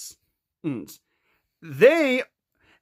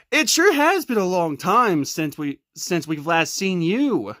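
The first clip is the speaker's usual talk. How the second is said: low Patrick voice; 8 semitones lower than usual. Pretend. Patrick greets friends, low voice.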